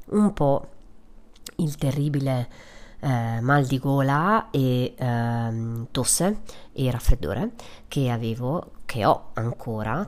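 blocked nose from a cold; nasal, stuffed-up voice. Real, not acted. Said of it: "come potrai sentire dalla mia fantastica voce nasale".

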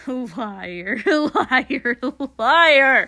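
furious, mounting shriek; escalating accusation. Acted. Villain screams accusation, escalating.

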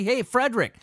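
lightly voiced, overeager buddy insisting on friendship; half-hearted mock of a clingy pal; pushy drunken buddy. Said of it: "And he goes back to his buddy".

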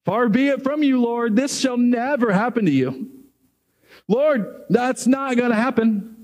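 high, insistent objection; indignant protest. Retold or imitated. Peter refusing to accept Jesus will die, insistent. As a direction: protest like a loyal friend who won't hear it. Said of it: "and he says".

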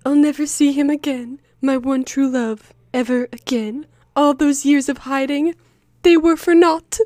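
mock tragic heroine. Anne's melodramatic line read.

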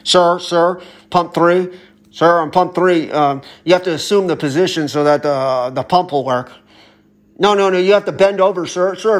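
a lightly voiced gas station attendant calling over the speaker, politely insistent; mock intercom attendant. Griping podcaster mocks a gas station intercom guy, lightly voiced and polite. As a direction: play the polite pump-three announcer, barely changing your voice. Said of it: "a guy, like, on the intercom that's like".

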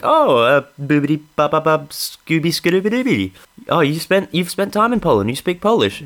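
lightly hammed-up happy surprise; pleasantly surprised. Comedian imitating Polish guy delighted by his language, mildly.

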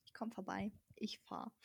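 whispered retold reply; whispered quote. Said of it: "Und dann habe ich gesagt". (leise geflüstertes Zitat)

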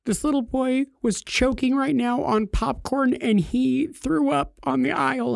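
high, breathless mock panic; imitating a flustered coworker. Coworker in a tizzy about the sick boy, high mock panic. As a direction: play her as all worked up and anxious. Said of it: "kind of in a tizzy".

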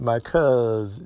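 "cuz" dragged out in a Southern way; Southern drawl. Shown as a demonstration. Showing how the South talks, a drawled "cuz". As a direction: drag out the word "cuz". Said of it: "the South like to drag their words".

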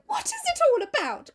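high, whiny petulant question; mock petulant Dorian; petulant cry. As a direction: whine it like a spoilt young man. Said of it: "cried Dorian in his petulant way".

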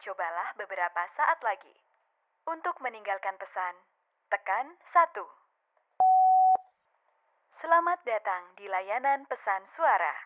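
recorded operator voice on the line; automated voicemail prompt; phone menu voice. Acted.

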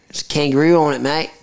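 mock Australian accent; Aussie accent. Joking about an Aussie beer, hammed-up Australian accent. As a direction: put on a playful Aussie accent. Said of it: "That's the worst Aussie accent ever".

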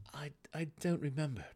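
whispered, hesitant admission; almost breathe the words out; reluctant admission. A narrator's reading. Drizzt admits to the gnome, whispering. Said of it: "Drizzt admitted".

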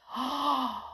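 long, breathy gasp; shocked gasp. A narrator's reading. Storyteller reveals the shrunken arms, gasping.

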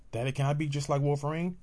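put-on a small child pleading with daddy. Child asking daddy to fly, high and eager.

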